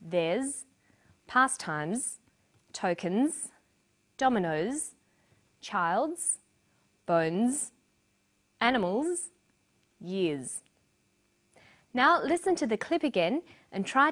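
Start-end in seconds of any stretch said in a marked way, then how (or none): 0.0-10.6 "theirs, pastimes, tokens" and the rest each end in a buzzed z; word list with pauses, rising on each item until the last; voiced Z endings. Shown as a demonstration. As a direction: model each word separately with a clear final z. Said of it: "Examples from the text are".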